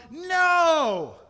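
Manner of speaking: loud high shouted no; children yelling. Retold or imitated. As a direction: yell it like a room of kids. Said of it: "the children yelled".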